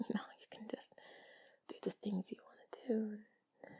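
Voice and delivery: soft intimate ASMR whisper; sultry narrator. Real, not acted. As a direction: breathe the words close to the mic. Whispers steadily to the listener.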